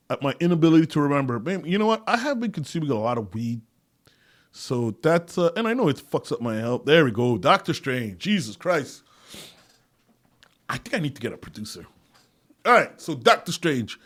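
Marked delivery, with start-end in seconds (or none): none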